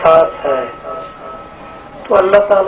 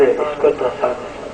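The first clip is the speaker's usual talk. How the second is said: softer and slow, pressing the command down; quieter slow repeat; 3 semitones lower, 7 dB quieter, slower than usual. Retold or imitated. Moses repeating his order to the earth, softer and slow. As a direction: let the order sink low and slow. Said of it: "اور آپ کہتے رہے، کہتے رہے".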